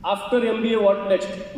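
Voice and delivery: slow grilling. Retold or imitated. Interviewer grilling acted out.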